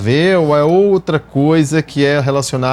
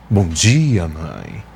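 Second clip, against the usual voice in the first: morning voice; 8 semitones lower, much slower than usual. Shown as a demonstration. Son greeting his mother on waking, deep morning voice. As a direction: drop the pitch right down for a morning voice. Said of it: "tô com aquela voz tipo".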